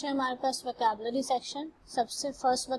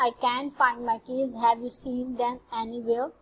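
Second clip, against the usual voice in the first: each English word laid out very slowly for the class; slow example reading; much slower than usual. Shown as a demonstration. Teacher reading an English example to the class, very slow and careful. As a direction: read it out word by word, like dictation to students.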